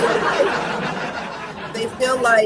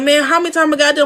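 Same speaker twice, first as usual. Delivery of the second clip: fast, higher, mock-annoyed gripe; whiny complaint; 5 semitones higher, 4 dB louder, much faster than usual. Imitating an artist tired of retakes, fast mock gripe. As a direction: rattle it off like a fed-up artist. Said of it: "And they be like".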